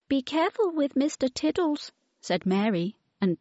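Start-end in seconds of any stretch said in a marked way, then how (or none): 0.1-1.9 put-on child voice. A narrator's reading. Children speak.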